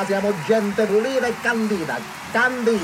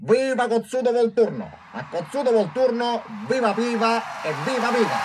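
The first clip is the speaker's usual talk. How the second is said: cheering toast; 5 semitones higher than usual. Acted. Toast at patriotic celebration.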